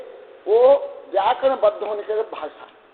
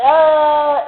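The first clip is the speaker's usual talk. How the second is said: a louder, higher open "aa" sound held out; drawn-out "aa" cry; 6 semitones higher, 9 dB louder than usual. Shown as a demonstration. Teacher demonstrating a wordless voice sound, a loud open "aa". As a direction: let out a bare "aa" as a raw vocal sound. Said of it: "आवाज में".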